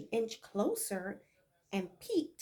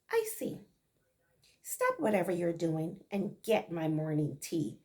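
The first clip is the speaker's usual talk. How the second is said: cold order; 3 semitones lower, 3 dB louder than usual. Acted. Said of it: "Corinne ordered Beulah coldly".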